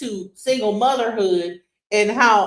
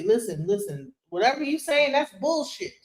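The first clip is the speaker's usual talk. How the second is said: calm voice; 3 dB quieter than usual. Shown as a demonstration. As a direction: keep it cool and unhurried. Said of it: "Talk like this".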